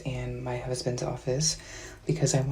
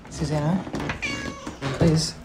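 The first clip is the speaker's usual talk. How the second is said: rising, louder nervous call; calling out nervously; 4 semitones higher, 3 dB louder than usual. Real, not acted. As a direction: call out, half scared. Calling out to husband, scared.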